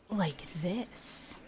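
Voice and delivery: hushed, breathy half-yell; whisper yelling. Shown as a demonstration. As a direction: yell it under your breath, almost whispering. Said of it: "that half whisper yell".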